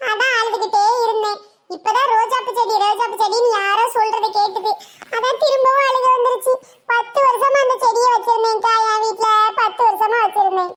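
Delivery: high whiny mock crying; hammed-up tearful complaint to the flower seller; comic weeping. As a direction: wail it like a hammed-up sob story. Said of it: "அழுகாம சொல்லுடி".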